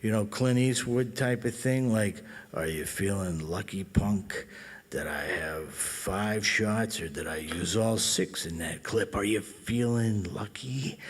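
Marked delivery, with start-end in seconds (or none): 2.5-11.0 low, subtle menace, lightly voiced; Dirty Harry. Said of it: "trying to do the Dirty Harry".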